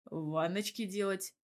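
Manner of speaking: unflappable. Acted. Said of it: "невозмутимо ответил".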